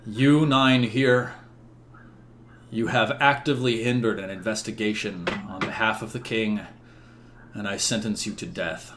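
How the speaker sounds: a hint of a stern judge, deliberate; stern king. King sentences nine knights to death, stern and measured. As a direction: pass sentence with measured finality.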